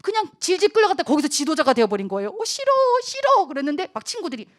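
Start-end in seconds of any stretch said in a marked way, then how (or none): 2.3-3.5 very high mock-whiny protest; whiny refusal. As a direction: dig in like a reluctant child. Calvin refusing his pushy friends.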